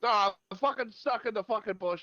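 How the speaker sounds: put-on high, whiny and fast drunk complaint; drunk guy stuck in bush. Drunk man stuck in a bush, whining high about his bottle. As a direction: whine like a drunk stuck in a hedge.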